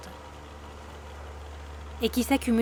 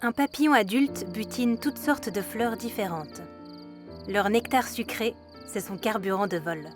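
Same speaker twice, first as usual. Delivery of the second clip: calm documentary voice-over; nature documentary. A narrator's reading. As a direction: narrate it like a wildlife film.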